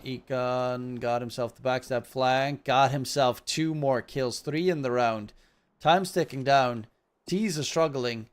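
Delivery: measured esports caster delivery; steady match commentary; live play-by-play. Pretend. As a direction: narrate the round, punching key moments. Live casting of the round.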